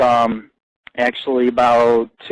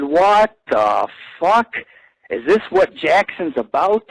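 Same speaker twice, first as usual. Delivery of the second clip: stretched-out, higher mock disbelief; slow shocked exclaim; 4 semitones higher, slower than usual. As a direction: drag the words out in disbelief. Hearing a man's voice from her.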